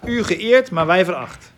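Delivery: loud, high-pitched ironic contrast; sarcastic. Retold or imitated. Teacher quoting Paul's mock honour, sarcastic. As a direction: ring out the mock honour, then drop. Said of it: "sarcastisch bedoeld".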